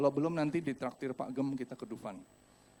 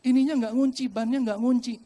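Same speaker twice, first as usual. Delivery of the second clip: loud, high-pitched alarm; re-enacted panicked yelling; acted panic; 10 semitones higher, 9 dB louder than usual. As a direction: urgently alert the attendant, shouting. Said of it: "Paniklah saya ya".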